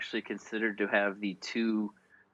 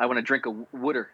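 Philly-style "wooder" for water; mock Philly pronunciation; Philly accent; 3 dB louder, faster than usual. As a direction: imitate a Philly speaker asking for water. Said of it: "thing that Philly people say".

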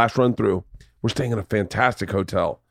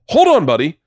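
high, rising, laughing excitement; can't believe the coincidence, voice climbing higher and higher; so excited; 13 semitones higher than usual. Retold or imitated. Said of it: "I'm, like, so excited".

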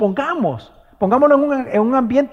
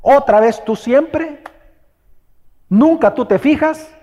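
scolding; 6 semitones higher, 4 dB louder, slower than usual. Retold or imitated. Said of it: "¿Le grita?".

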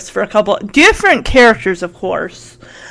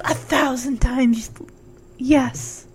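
swooning; 12 dB quieter, slower than usual. Retold or imitated. Nicole swooning in recap.

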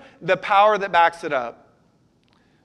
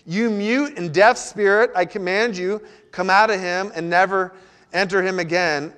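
Jesus rebuking the unclean spirit, mildly raised command; commanding rebuke. Acted. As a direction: cast the spirit out with authority. Pastor voices Jesus rebuking spirit.

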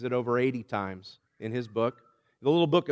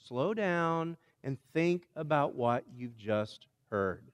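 slow and softer, easing down; calming; 7 dB quieter, slower than usual. Acted. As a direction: settle the listeners like a gentle hush. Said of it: "And then the psalmist says".

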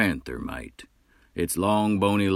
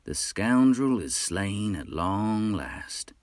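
with a smile; 3 semitones higher, slower than usual. Acted. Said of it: "said the hunter with a smile".

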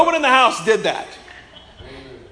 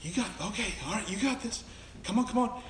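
much softer, coaxing encouragement; gentle coaxing parent; 12 dB quieter, faster than usual. Retold or imitated. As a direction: softly urge the toddler on. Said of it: "You were holding your kid".

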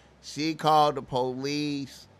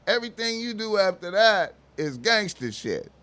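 ordinary delivery

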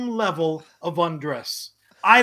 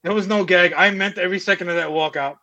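louder, deadpan insistence; mock defiance; 4 dB louder than usual. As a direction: insist with pretend pride. Mock defiant walkout claim.

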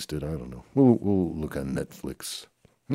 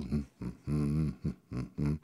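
zombie moans; 4 dB quieter than usual. Pretend. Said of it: "let's act like zombies".

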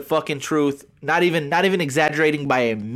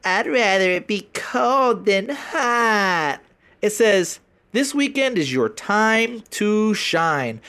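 reading his post; 5 semitones higher, slower than usual. Retold or imitated. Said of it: "this post says".

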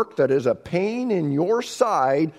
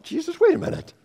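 high, louder outraged protest; indignant disciples; 7 semitones higher, 4 dB louder than usual. Retold or imitated. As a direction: voice the scandalized disciples. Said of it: "the disciples probably thought".

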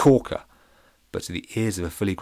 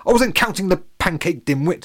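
high, loud bully's yell; mock shout; 9 semitones higher, 5 dB louder than usual. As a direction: bark it down at the little pirate. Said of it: "shouted Splits".

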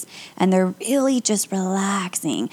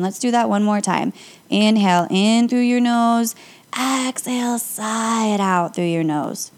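guided breathing. Acted. Yoga teacher guiding podcast listeners through nose breathing, calm. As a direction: talk the listener through each breath, unhurried.

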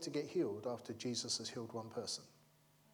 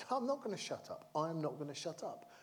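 high-pitched mock protest, no real volume; imitated defiant shouting; 4 semitones higher than usual. Blind man refusing the crowd's hushing, mock defiant shout. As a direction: act out a defiant refusal, pitch jumping then settling. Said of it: "Bartimaeus shouted all the more".

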